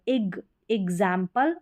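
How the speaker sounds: एग्जाम्पल begun syllable by syllable; broken-down demonstration. Shown as a demonstration. Teacher modelling it for students, एग्जाम्पल broken down. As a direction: split off "ig", then say एग्जाम्पल as "ig-zaem-pal". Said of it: "इस तरीके से".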